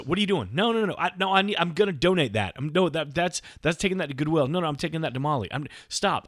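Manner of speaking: high, rapid-fire objections; imitated flustered wife. Wife stopping husband clearing her car, high and flustered.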